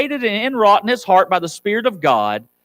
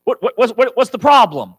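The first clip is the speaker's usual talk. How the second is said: alarmed mom; 3 dB louder than usual. Retold or imitated. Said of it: "You're gonna be like".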